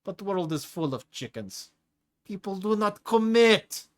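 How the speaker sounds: hulking prisoner bellowing his creed at Leo; Tigra's booming rant. Acted. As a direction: throw it out big and gleeful like a brute preaching. Tigra laughs, arms up, ranting.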